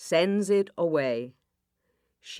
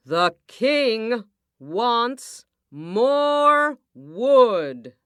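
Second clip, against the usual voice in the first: slow, high, loud officer voice; stern soldier's order; king's men; 7 semitones higher, 7 dB louder, much slower than usual. Acted. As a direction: boom out the king's command.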